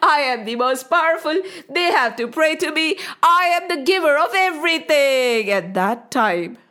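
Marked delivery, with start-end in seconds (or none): 0.0-5.5 laughing boast. Acted. Indra boasting alone on his throne, laughing. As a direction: crow about your greatness with a chuckle. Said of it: "he was laughing".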